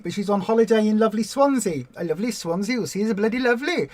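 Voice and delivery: put-on a light mixed Welsh and Indian accent; playful mock Welsh-Indian accent on lovely Swansea. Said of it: "I'm doing accents again".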